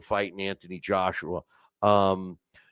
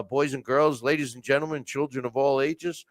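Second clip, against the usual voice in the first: lightly hammed-up showman intro; ringmaster. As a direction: announce him like a circus ringmaster. Circus-style intro of guest.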